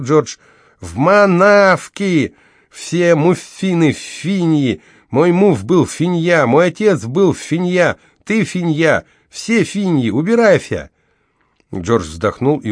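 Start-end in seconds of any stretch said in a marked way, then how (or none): 0.8-10.9 high, loud lisping rant through missing teeth; broken-toothed woman shouting him away; toothless outburst. Acted. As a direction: spit it out in toothless fury, slow. Gloria angry outburst.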